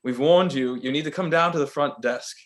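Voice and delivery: lightly put-on British hotel official; stern warning in a fake London accent; badly faked British desk clerk; awful London accent. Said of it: "this is a very awful accent".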